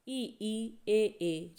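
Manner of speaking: demonstrating the front vowels ई and ए for the class; vowel demo. Shown as a demonstration. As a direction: say ई, ई and ए, ए as clean long front vowels. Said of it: "बोल के देखिए".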